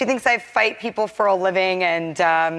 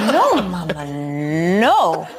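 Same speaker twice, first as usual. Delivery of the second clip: imitating toddler son; 3 dB louder, slower than usual. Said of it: "and he goes".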